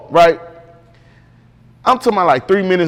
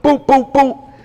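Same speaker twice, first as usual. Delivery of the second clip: boop boop boop said higher, like knuckles on glass; imitated knocking; 6 semitones higher, slower than usual. Shown as a demonstration. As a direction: tap out the knocks on a window with your voice. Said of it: "That's me knocking on the window".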